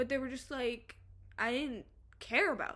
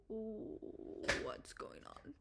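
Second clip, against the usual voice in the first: anime dubbing voice; 6 dB quieter, slower than usual. Retold or imitated. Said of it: "kind of that anime dubbing voice".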